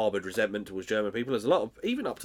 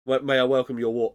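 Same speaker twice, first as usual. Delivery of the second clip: quoting Basil; 2 semitones higher, 5 dB louder than usual. Retold or imitated. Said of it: "There's also a line where he goes".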